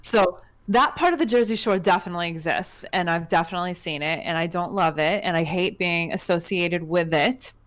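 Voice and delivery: put-on thick New Jersey accent. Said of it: "I'm gonna have to get into my Jersey accent for a second".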